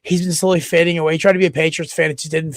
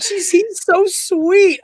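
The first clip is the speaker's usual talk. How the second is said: put-on high, slow sweet girlfriend voice; girlfriend's gushing impression; imitating girlfriend; 13 semitones higher, much slower than usual. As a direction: gush it like she did. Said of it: "she's like".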